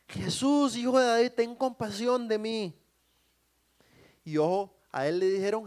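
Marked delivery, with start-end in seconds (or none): 0.1-2.8 high, loud cry for mercy; shouted plea. Acted. Blind man keeps calling despite the crowd, shouting. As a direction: call out desperately over the hushing. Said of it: "gritaba más duro todavía y más fuerte".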